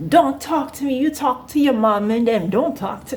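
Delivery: a hint of the rude coworker; mock coworker. Rude coworker snapping at the teen, lightly mocked. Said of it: "She was like".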